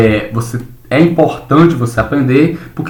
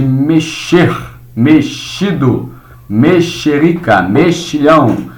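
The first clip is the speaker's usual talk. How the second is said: slow example words; slower than usual. Shown as a demonstration. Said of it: "teacher models example words".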